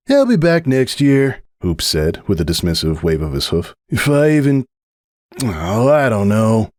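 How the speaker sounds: dismissive, then trailing off; Hoops character voice. A narrator's reading. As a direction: brush it off, then falter.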